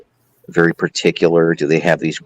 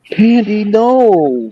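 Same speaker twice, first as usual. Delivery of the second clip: high, loud sharp "no" at the dog; scolding the dog; 4 dB louder, much slower than usual. Real, not acted. To the dog Candy jumping up, a high loud scold.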